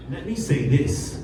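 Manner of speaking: slow, evasive dodge with head cocked; evasive R. Kelly. Retold or imitated. R. Kelly stalling the interviewer, slow and evasive. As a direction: stall before a non-answer. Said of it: "R. Kelly cocked his head to the side and said".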